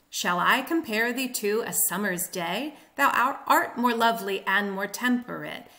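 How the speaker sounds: "shall I com-PARE thee" on a da-DUM beat; iambic recitation. Shown as a demonstration. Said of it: "This is classic iambic pentameter".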